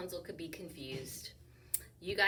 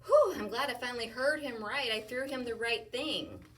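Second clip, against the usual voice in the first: relieved Rapunzel; 5 semitones higher, 6 dB louder than usual. Acted. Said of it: "and thinks".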